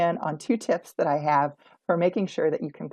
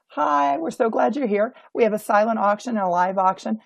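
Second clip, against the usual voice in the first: timid greeter; 3 semitones higher than usual. Shown as a demonstration. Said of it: "They don't say something like".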